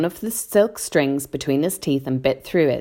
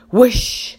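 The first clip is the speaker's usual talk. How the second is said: spoken whoosh; 7 semitones higher, 6 dB louder than usual. Acted. Narrator imitates plane rushing past.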